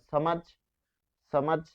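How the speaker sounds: সমাজ with a hissed dental s; wrong dental s. Shown as a demonstration. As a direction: say সমাজ with s, not sh. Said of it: "আপনি কি সমাজ বলেন". (দন্ত স দিয়ে সমাজ)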